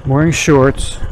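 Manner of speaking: helmet mic with the visor open; talking inside an open helmet. Real, not acted. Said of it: "visor is up".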